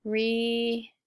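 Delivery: "restrict" stretched syllable by syllable; "restrict" broken in two long parts; sounded out. Shown as a demonstration. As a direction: sound out "restrict" slowly, re... strict. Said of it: "sound it out with me".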